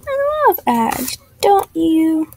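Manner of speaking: high, slow, over-sweet sarcasm; mock-cheery, drawn out, dripping with irony; sarcastic. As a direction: gush fake delight about the ads. Annoyed by an ad interruption.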